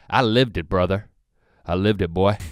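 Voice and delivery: low Southern country drawl; redneck drawl. Shown as a demonstration. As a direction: drop into a Carolina redneck voice. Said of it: "This is how I talked when I was living it".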